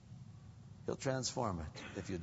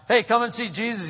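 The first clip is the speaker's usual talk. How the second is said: eager Philip; 12 semitones higher, 13 dB louder than usual. Retold or imitated. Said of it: "Philip asked".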